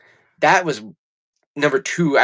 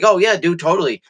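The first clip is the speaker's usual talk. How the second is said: higher, breezy mock agreement; mocking Fauci; 5 semitones higher than usual. Mocking Fauci's promises as breezy higher agreement. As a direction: ham up a careless yes-man. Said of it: "you fucking were like".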